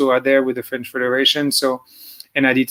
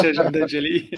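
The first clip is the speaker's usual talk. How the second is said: Saint-Jean-d'Angély said with an Americanised accent, a playful demo; American accent; 3 semitones higher than usual. Shown as a demonstration. Racer re-says the track name for the host, mock American accent.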